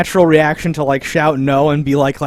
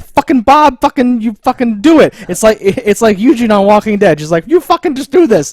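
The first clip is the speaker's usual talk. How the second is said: mock exasperated yell; 5 semitones higher, 3 dB louder than usual. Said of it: "And she's like".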